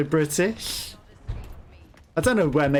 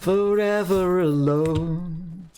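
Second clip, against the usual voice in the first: mock lament; 4 semitones higher, much slower than usual.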